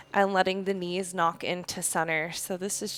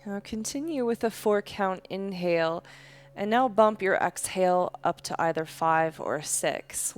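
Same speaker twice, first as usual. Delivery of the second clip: calm, unhurried yoga-teacher voice; guided breathing meditation. Real, not acted. Leads slow breathing meditation.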